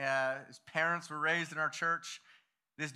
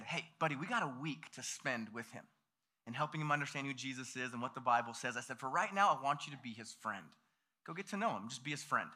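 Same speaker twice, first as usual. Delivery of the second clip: calming aside; 4 semitones lower, 6 dB quieter than usual. Retold or imitated. Leader takes worked-up child aside.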